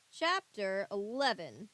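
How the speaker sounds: slow, spontaneous Scottish accent on a chapter title. Real, not acted. Podcaster reading a book announces the chapter, Scottish accent. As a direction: roll it out Scottish, unplanned. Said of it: "I said that in a Scottish accent".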